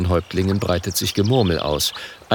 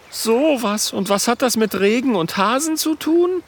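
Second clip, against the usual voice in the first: lightly voiced grumble. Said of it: "Oskar brummt".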